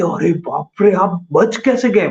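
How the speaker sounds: slow, amazed "how did you survive"; astonished villager. Retold or imitated. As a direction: retell the old man's stunned wonder. (हैरान होकर धीरे से पूछना)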